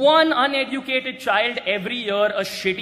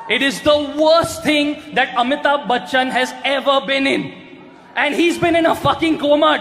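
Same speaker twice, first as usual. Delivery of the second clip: punchline shout; 4 semitones higher, 3 dB louder than usual. Acted. Roast punchline built on shouting.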